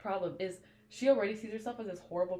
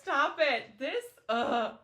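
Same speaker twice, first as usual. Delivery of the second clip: excited squeal; 11 semitones higher, 6 dB louder, slower than usual. Real, not acted. Fangirl reacting to romance.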